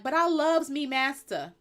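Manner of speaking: mock devoted servant; Candace Owens. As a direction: put on a hint of a clinging servant. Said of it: "the type of person to be like".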